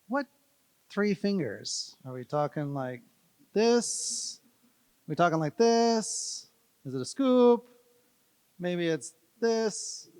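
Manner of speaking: playful mock bewilderment; mock puzzled voice. Mocking wonder about three fingers.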